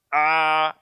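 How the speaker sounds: A squeezed in the throat like an Arabic ain; constricted pharyngeal A; pressed from onset. Shown as a demonstration. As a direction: press hard on the start of "a". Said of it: "kalau kita tekan dari awal".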